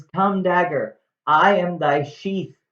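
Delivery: a hint of tragic heroine grabbing the dagger; mock-tragic Juliet. Juliet addressing the dagger before stabbing herself, mock-tragic. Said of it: "she says".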